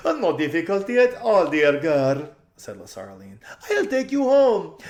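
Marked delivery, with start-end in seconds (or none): 0.1-2.4 very high, loud, slow and laughing; thrilled spoiled socialite; gushing society lady. A narrator's reading. Lasaraline voiced.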